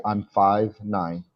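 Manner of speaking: slow, spaced-out example for a learner; deliberate teacher's demonstration; model answer. Shown as a demonstration. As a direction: say it slowly as a phrase to copy. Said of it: "This is how we say".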